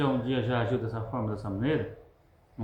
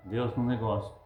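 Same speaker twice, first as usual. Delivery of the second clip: ordinary talk, nothing marked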